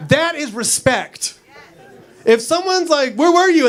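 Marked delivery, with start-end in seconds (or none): 3.2-3.7 higher-pitched mock interrogation; demanding questioner. Someone questions a liar, mock demanding. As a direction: put them on the spot, lightly acted.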